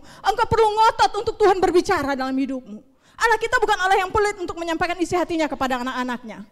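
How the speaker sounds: high, loud, insistent preaching; forceful preaching. Real, not acted. Preacher warning the congregation about stubbornness serving the flesh, forceful.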